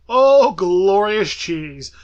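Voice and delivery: drawn-out, loving exclamation; savoring delight. Real, not acted. Fond exclamation over bad movie.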